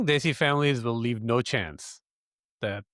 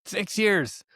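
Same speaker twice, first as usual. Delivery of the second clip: higher-pitched, astonished repeat; surprised echo; 7 semitones higher than usual. Real, not acted. Friend hearing how long the couple waited, surprised. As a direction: echo it back in disbelief. Echoes the answer in disbelief.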